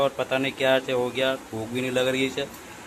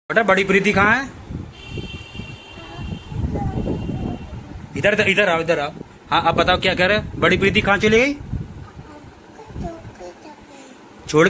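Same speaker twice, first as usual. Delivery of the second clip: high pet talk; 7 semitones higher than usual. Real, not acted. Owner asking his sad pet if she misses big mummy, high baby talk.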